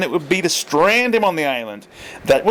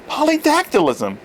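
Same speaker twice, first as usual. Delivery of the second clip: shouted; 14 semitones higher than usual. A narrator's reading. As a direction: yell the word once more. Turn shouting again.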